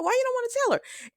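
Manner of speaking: high, squeaky disbelieving question; teasing a character for keeping secrets; mock incredulous. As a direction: pitch it way up in playful disbelief. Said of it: "I'm like".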